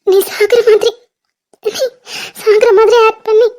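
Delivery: words breaking with crying; tearful. Acted. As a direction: cry through the words. Tearful confession to lover. (அழுகையுடன்)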